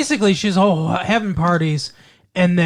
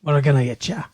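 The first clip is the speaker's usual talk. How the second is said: light mock Irish threat; a touch of Irish brogue; mock Irish God; much faster than usual. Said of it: "I'm Irish, God".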